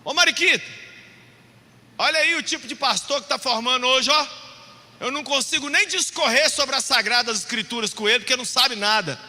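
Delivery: loud, exasperated imitation of grandpa; mock-indignant grandfather shout; grandpa yelling. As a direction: call out a complaint to grandma. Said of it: "Aí ele gritava pra minha avó".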